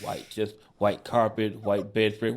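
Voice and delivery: low, soft, deliberate emphasis; hushed setup. Real, not acted. Storyteller describing the all-white room, hushed and ominous. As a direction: drop low and soft to build dread. Ominously setting up the vomit scene.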